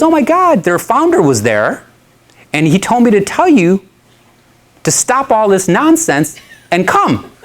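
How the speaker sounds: put-on excited girlfriend. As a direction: gush like a thrilled girlfriend passing on news. Girlfriend excitedly relays message.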